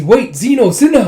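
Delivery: high shouted call after riders. Retold or imitated. Girl shouting after departing dragons, high call. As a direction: yell their names as they ride off. Retelling anime, character calls out.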